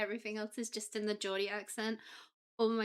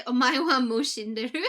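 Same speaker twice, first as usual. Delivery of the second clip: dramatic anime quote; 2 semitones higher, 12 dB louder than usual. Acted. Quoting a famous anime line.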